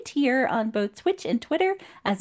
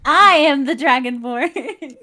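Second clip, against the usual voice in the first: grand proclamation; 6 dB louder than usual. Pretend. Joking she is the Dragonborn.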